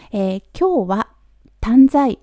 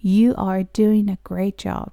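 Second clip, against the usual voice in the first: slow demo; slower than usual. Shown as a demonstration. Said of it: "よくできてますよっていうのは".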